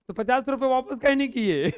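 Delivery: loud mock yell; shouting girl. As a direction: yell it like a fierce little girl. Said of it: "वो एकदम चिल्ला के बोल रही थी".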